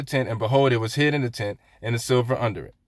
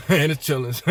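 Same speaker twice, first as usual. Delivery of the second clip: Southern accent; 3 semitones higher than usual. Real, not acted. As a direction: let the Southern accent slip out with a chuckle. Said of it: "I can hear the accent in that".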